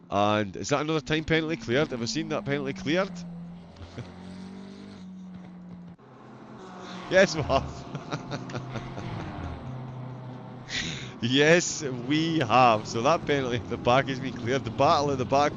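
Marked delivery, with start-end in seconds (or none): 3.2-5.9 quiet laugh. Real, not acted. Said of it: "I've been laughing all the way through". 7.9-11.2 quiet laugh. Real, not acted. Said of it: "I've been laughing all the way through".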